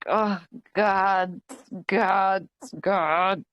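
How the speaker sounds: low, weary inner groaning; retold dismay. Stylist to herself over the awkward coincidence, dismayed. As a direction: repeat it low, with a pause between each.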